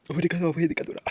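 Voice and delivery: high, loud mock begging; joking loud demand. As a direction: shout for presents as a joke. Mock plea to viewers for presents.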